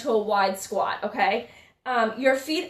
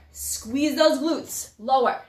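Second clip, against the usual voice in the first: drawn-out cue; slower than usual. Shown as a demonstration. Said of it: "coach cue, drawn out".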